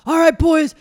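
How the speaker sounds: loud, high coach call; mock coach shout. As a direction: bark it like a frazzled coach. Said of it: "you're like".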